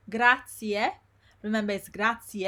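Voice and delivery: grazie ending in a clear i-e; both vowels pronounced. Shown as a demonstration. Teacher reminds learners of two vowels, clear ending. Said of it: "two vowels together".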